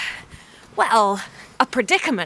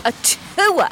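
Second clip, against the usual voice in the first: put-on Brooklyn accent; 6 semitones higher than usual. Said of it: "Not tour like in a Brooklyn accent".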